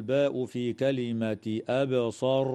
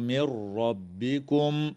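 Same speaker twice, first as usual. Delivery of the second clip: slow chant merging نون into راء as مِرَّبِّكُم; Quranic recitation; slower than usual. Shown as a demonstration. Tajweed teacher reciting for students, slow chant. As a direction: recite slowly with the merge. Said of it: "قوله تعالى".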